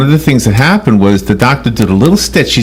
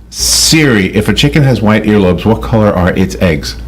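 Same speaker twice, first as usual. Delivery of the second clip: repeating to voice assistant; 4 semitones lower than usual. Real, not acted. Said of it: "Okay, here we go".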